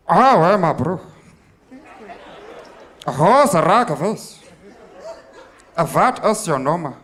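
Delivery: put-on heavy Afrikaans accent, laughing. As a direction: play a rough Afrikaans guy. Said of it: "We're like".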